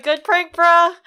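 high, loud jokey bro voice; hammed-up delighted reaction; mock amusement. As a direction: hoot it out like the butt of a prank. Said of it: "he just smiles and he laughs".

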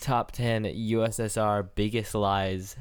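slow, drawn-out countdown title; announcer voice. Pretend. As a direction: read it like a list-show host.

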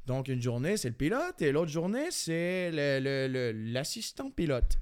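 hesitant imitated French accent; accent français de France. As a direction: keep a light mock French accent. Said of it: "j'ai chié l'autre avec l'accent français". (léger accent de France hésitant)

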